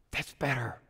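low, soft sigh of relief; relieved. Acted. Teacup cooling on the shelf, relieved. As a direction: settle down into a quiet, low voice.

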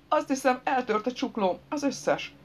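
high-pitched pained whimper. A narrator's reading. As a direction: whimper it like an injured man. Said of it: "nyöszörögte". (magas, fájdalmas nyöszörgés)

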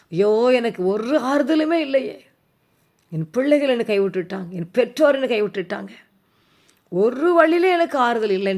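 mild wailing plea of someone forsaken; acted lament. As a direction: voice a despairing believer's complaint. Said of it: "சொல்லி அழுகிறீங்களா". (லேசான புலம்பல் நடிப்பு)

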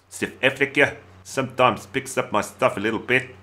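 put-on South African accent; amateur stab at a South African accent; mock South African accent. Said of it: "that's it for my accents".

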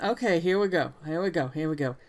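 settling into a southern accent. Shown as a demonstration. Player finding the character's voice, southern accent. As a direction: ease into southern vowels. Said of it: "about a southern accent".

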